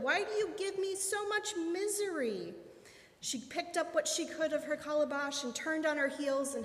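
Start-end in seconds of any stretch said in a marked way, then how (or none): 0.0-2.5 high-pitched wail of protest; shouted complaint. A narrator's reading. Woman asking Papa God about her misery, shouted complaint. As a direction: demand it in a high, falling wail. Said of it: "she shouted".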